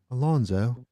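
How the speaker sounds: put-on British-accented name call; Jeff. Host calling up a comic, British accent. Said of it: "I can only do a British accent when I'm doing Jeff".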